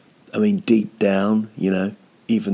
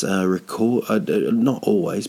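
normal talking voice

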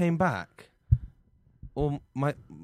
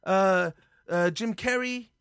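eager ingratiation; 8 semitones higher than usual. Acted. Suddenly wins favour with Canadians.

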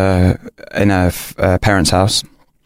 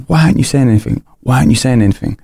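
put-on lightly raised girlfriend voice, repeating the question; imitating girlfriend; 4 semitones higher, faster than usual. Girlfriend pressing him to speak, mildly higher imitation. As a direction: echo her nagging question, a bit higher.

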